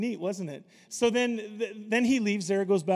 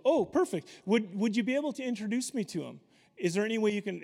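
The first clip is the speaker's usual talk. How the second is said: higher, bright-eyed eagerness on Oh perfect; eager, excited asking; 4 semitones higher than usual. Retold or imitated. Evangelist eagerly asking the flight attendant for an introduction, excited. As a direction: ask like you can't believe your luck.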